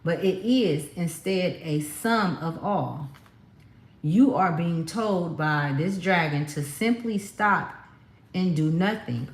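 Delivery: slow, measured card reading; reading aloud. Real, not acted. Tarot reader passing on the dragon's message, slow reading aloud. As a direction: read the message out slowly, word by word.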